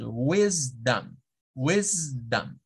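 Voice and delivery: "wisdom" slowly, WIS up and dum dropping; stress on first syllable. Shown as a demonstration. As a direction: lift "wis", let "dom" fall away as a weak "dam". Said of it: "en la primera sílaba subir mi tono de voz y en la segunda bajarlo".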